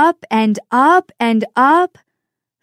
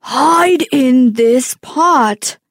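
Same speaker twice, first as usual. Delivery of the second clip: urgent giantess; 4 dB louder than usual. Acted. Giant woman warning Jack before her husband sees, urgent. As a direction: hurry him into hiding, loud.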